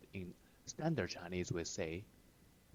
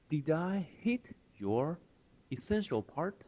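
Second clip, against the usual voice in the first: smug question; 8 semitones higher than usual. Retold or imitated. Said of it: "It means".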